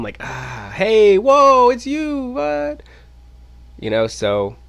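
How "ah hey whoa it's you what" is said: high, loud mock surprise; playing dumb. Greeting the manager he tried to avoid, feigned high surprise. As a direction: act surprised on a rising, drawn-out greeting. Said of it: "I tried to play it dumb".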